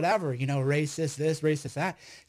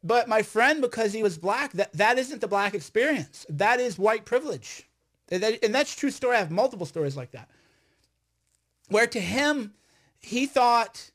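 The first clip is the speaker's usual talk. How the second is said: raised voice, higher and louder; talking loud; 4 semitones higher than usual. Real, not acted. Cohost says he is talking loud, raised voice. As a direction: push it out, worked up. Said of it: "No, you're talking loud".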